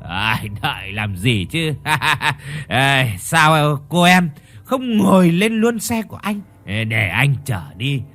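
giọng say chậm, lè nhè; kéo dài chữ như người say; frat bro. Acted. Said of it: "lè nhè nói". (chàng trai say lè nhè trêu cô gái)

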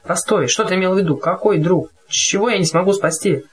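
calling out. Acted. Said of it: "вскричал".

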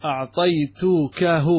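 very slow, spelled-out example; slow demo example. Shown as a demonstration. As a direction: lay out each syllable of أعطيتكه slowly. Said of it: "فتقول مثال".

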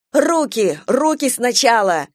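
urgent shouted order. Acted. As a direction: yell it in pain and hurry. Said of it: "закричала она".

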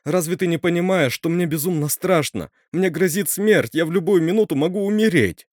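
high, loud, panicked pleading; frightened outcry. Acted. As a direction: cry out in terror of dying. Terrified girl cries out fear.

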